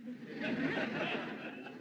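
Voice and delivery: breathy rueful chuckle; rueful laugh. Acted. Nick laughing nervously about telling his fiancée. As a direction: laugh off the dread.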